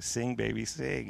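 soft, sweetly teasing echo; smiling tease. Retold or imitated. Wife turning his catchphrase back on him, softly teasing. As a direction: say it softly through a smile. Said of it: "Shelby just smiles at me".

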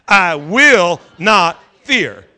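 slow and loud "I will not fear". Shown as a demonstration. Pastor urging the congregation to say it loud, loud slow declaration. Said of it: "Say it loud".

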